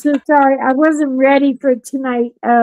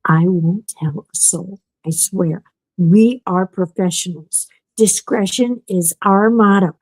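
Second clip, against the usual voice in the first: lightly lower mover voice; 4 semitones lower than usual. Retold or imitated. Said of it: "he's like".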